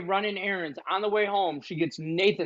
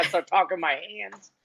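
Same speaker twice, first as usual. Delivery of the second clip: normal talking voice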